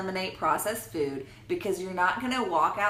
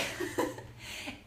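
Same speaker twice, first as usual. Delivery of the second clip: raspy laugh; 8 dB quieter than usual. Pretend. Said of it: "the old lady smoker's voice".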